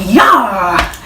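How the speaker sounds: "Yeah" drawn out as "yaah", falling; drawled "yeah". Shown as a demonstration. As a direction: stretch "Yeah" until it sounds like "y'all". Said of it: "you take this like".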